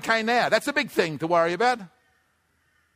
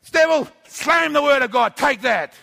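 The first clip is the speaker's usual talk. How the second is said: defiant rebuke; 4 semitones higher, 4 dB louder than usual. Pretend. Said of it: "into his face and say".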